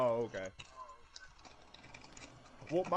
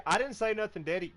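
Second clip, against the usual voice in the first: put-on higher little-kid denial; imitating little son; 6 semitones higher, 4 dB louder than usual. Son denying the bad word to his dad, higher kid voice. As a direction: play the innocent child.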